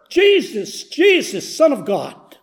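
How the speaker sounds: high, desperate repeated calls. Retold or imitated. Beggar defying the townspeople who hush him, crying out high. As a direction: cry out again, even harder. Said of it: "I even screamed louder".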